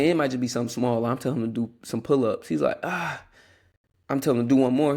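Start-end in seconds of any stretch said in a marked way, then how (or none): 2.8-3.2 high imitated groan of effort; mock strained groan. Imitating little brother told to do pull-ups, mock groan. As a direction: groan like a kid refusing, pitched up.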